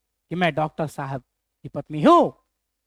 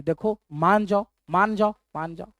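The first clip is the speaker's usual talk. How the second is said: soft, coaxing plea to his wife; pleading softly; 2 semitones lower, 6 dB quieter than usual. Retold or imitated. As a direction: gently beg her to give in. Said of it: "लड़का बार बार समझा रहा है". (पत्नी को धीरे से मनाता पति)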